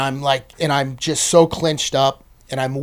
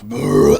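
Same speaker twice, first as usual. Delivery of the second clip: growl sound; 3 semitones lower, 5 dB louder than usual. Retold or imitated. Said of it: "I'm almost like".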